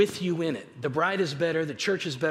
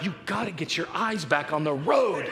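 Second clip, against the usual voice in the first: laughing panic. Retold or imitated. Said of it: "I'm just freaking out like".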